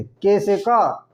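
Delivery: के spoken slowly, then क; slow letter drill. Shown as a demonstration. Teacher drilling letter sounds for the class, slowly. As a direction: say के, then क, drawn out. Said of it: "के L M A से".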